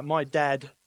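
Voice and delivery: put-on Cockney accent. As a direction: do a Cockney man telling his tale. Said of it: "not gonna do a Cockney accent".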